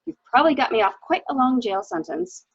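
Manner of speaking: loud, jovial, slowed on the praise; hearty husband. Retold or imitated. Husband cheering the nurse after the inquest, loud and jovial. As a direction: boom out the congratulations like a careless squire. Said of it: "he said".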